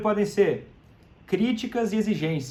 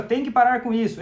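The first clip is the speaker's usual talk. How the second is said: a firm, demanding order, a touch louder; bossy demand; 4 semitones higher, 4 dB louder than usual. Shown as a demonstration. A hint of the demanding partner ordering the drinker to quit. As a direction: snap out a firm command to stop. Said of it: "falando assim, ó".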